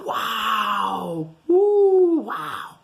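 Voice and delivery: high, loud whoop; cheering. Real, not acted. Teacher to kids, a loud high whoop. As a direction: celebrate school ending.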